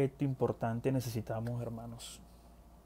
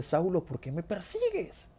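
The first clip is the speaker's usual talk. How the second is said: voice from heaven; 6 semitones higher than usual. Acted. The Lord questions Saulo on the road, lightly acted heavenly voice. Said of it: "escucha una voz que le dice".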